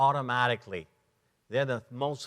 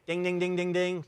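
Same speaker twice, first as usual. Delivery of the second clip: lightly sung dings; mock ding filler; 3 semitones higher than usual. Trainer mimicking a thinker's answer, light dings. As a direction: tap out the dings. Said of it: "I think".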